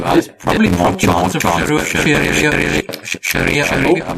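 glitchy, echoing robotic audio; distorted repeating connection sound; echoey robot audio. Real, not acted. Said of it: "You sound like an echoey robot".

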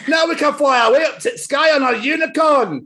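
high Scottish cheer; cheering Peppa. Acted. Peppa cheering in Scottish storybook reading. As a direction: cheer it like an excited wee girl. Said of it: "cheered Pepper".

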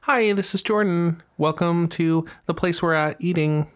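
slow, bright server greeting; customer service voice. Shown as a demonstration. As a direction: greet the table like a waiter. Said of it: "You gotta say".

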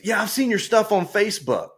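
lightly acted eager driver; pleased recognition. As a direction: voice a stranger eagerly recognizing someone. Driver recognizes him, retold.

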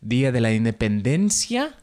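attempted Mexican accent that drifts, lifting at the end; off-target Spanish accent. Shown as a demonstration. Host slips into Spanish for the holiday, off-target Mexican accent. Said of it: "that wasn't a Mexican accent".

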